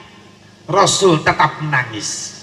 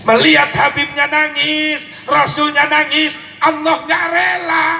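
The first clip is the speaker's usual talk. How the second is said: preaching shout; 9 semitones higher than usual. Real, not acted. Climax of the preached story.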